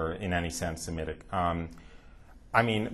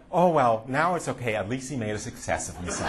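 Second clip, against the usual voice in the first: higher, half-laughing shrug of relief; mock grudging relief; 3 semitones higher than usual. Parents grudgingly accept the son's success, higher with a laugh. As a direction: play the parents sighing that it's okay now.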